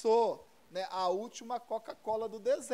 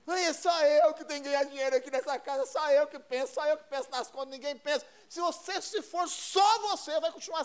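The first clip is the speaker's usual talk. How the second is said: complaining husband. Acted. Husband griping about carrying the household alone, complaining. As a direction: reel off a husband's grievances. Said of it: "O marido reclamando".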